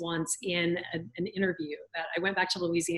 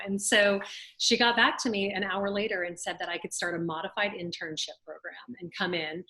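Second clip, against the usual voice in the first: ordinary talk, nothing marked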